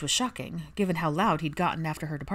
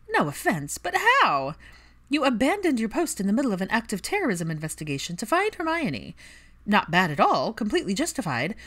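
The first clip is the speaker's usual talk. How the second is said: higher, louder scolding rant; Pansy voice, incredulous; 7 semitones higher, 4 dB louder than usual. A narrator's reading. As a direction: tear into him, half amused, half appalled. Pansy lectures Draco.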